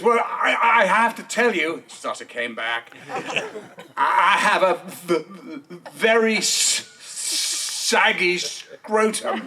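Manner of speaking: stuttering, slowing to a crawl on "saggy scrotum"; stammering confession. Retold or imitated. Tag answering the prank caller, stammering. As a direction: stammer and drag out the last words. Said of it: "he goes".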